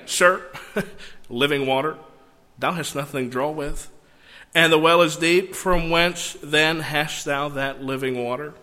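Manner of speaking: scoffing chuckle after "Sir", then measured disbelief; slightly sarcastic. Shown as a demonstration. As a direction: say it with a twinge of sarcasm. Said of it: "she's being just slightly sarcastic".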